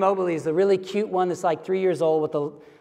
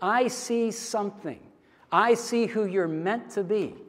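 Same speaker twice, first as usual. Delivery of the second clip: tender vision; 4 semitones higher, slower than usual. Shown as a demonstration. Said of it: "this is the idea".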